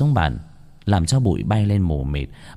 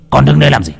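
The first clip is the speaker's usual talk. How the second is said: impatient shout; 6 semitones higher, 8 dB louder, faster than usual. Acted. Sorcerer barks at disciple.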